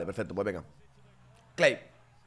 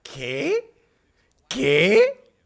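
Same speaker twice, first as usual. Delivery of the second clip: much higher, louder disbelieving cry; shocked shout; 13 semitones higher, 11 dB louder than usual. Real, not acted. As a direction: yelp of disbelief. Disbelief at play. (grito de incredulidad)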